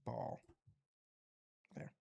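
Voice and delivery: deep voice. Shown as a demonstration. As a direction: drop the word Ball deep. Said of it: "repeating phrase in low voice".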